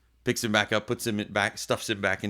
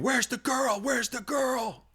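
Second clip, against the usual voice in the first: much higher, shouted demand; police shouting; slower than usual. Retold or imitated. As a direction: yell it like a frantic cop. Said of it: "police are running around screaming".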